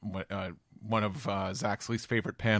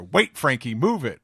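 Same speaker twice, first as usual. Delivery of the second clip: mock call out; 5 semitones higher, 8 dB louder than usual. Voice calling from distance.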